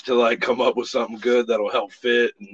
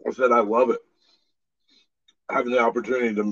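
talking through cookies; words round a mouthful of cookie; mouth full; much faster than usual. Real, not acted. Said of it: "sorry, I'm eating cookies right now".

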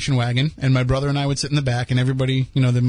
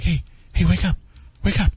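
high, rising mock excitement, building up; fake excited wake-up call; 4 semitones higher than usual. Big brother waking sleeping siblings, fake-excited. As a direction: sell the Disney World lie with glee. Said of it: "be like".

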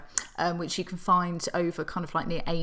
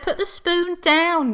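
mock scolding; 9 semitones higher, 5 dB louder, slower than usual. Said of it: "We said".

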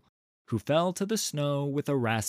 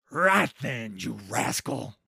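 light cheerful troll king, a touch gruff; cheerfully. Acted. Trundle to the throttled troll, cheerful. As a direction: greet the captive like an old friend. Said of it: "said Trundle cheerfully".

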